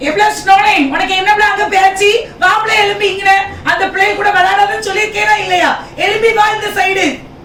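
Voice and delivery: high, loud scolding yell.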